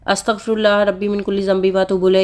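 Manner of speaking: the whole verse in one recited breath; full verse recited. Shown as a demonstration. Vlogger shows viewers the full verse they should skip, recited plainly. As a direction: recite the complete phrase as the example not to use. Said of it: "ये नहीं, पूरी आयत".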